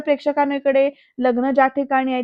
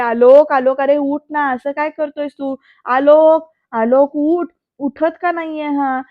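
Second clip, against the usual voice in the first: loud, frantic calls to wake him, pitch rising; anxious calling out; 2 semitones higher, 6 dB louder, slower than usual. Retold or imitated. Ambika frantically calling unconscious Alok, loud and panicked. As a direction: call his name in rising panic. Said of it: "Ambika ना तळमळते".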